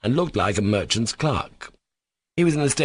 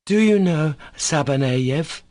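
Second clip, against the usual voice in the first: higher, slower, emphatic interrogation; severe emphasis; 8 semitones higher, slower than usual. A narrator's reading. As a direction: demand it severely, spacing the words. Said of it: "even more emphatically and even more severely".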